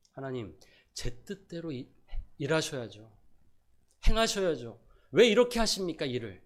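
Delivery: Jonah scolding God, rising to a loud demand; reproaching God. Retold or imitated. Jonah complaining to God about His mercy, indignant. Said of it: "하나님을 나무라는 듯".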